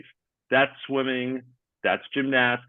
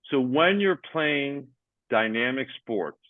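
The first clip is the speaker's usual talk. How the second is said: measured, deliberate explaining; slowed-down repeat; slower than usual. Shown as a demonstration. Host asked to hear the point slower, deliberate repeat. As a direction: say it slower, spacing out the phrases. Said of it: "say it slower".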